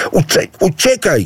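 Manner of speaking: high mocking yell; animals shouting. A narrator's reading. Wild beasts chase Idu off, mocking yell. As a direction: yell him away. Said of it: "krzyczały zwierzęta".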